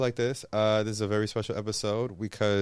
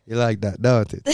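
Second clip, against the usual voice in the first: louder teasing Jamaican patois; bedroom patois on request; 5 dB louder than usual. Shown as a demonstration. Fiancee asked for a repeat, punchier bedroom patois. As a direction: repeat it with more punch, mock seductive. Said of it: "Say it again".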